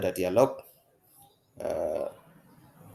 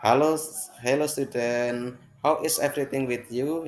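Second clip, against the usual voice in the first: teacher greeting class; 4 semitones higher, 3 dB louder than usual. Acted. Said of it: "bagaimana kabar kalian".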